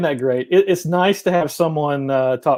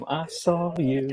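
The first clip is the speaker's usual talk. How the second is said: spooky hush; 9 dB quieter, slower than usual. Retold or imitated. Host echoes ghostly voice again.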